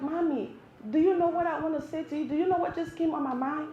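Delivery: put-on soft, gentle child's question; a hint of a kid sweetly approaching mom; lightly voiced young son. Son gently approaching crying mother.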